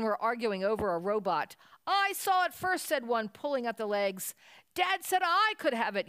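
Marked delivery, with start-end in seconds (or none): 1.9-2.9 put-on high, loud childish protest; squabbling child. A narrator's reading. Child fighting his brother over a toy, whining loudly. 4.7-6.1 put-on high, louder childish yell. A narrator's reading. Child tugging the robot from his brother, yelling. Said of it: "yelled the other".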